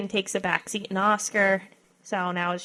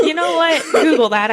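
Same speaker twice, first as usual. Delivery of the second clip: laughing; 7 semitones higher, 9 dB louder than usual. Real, not acted. Laughing at the whisper joke.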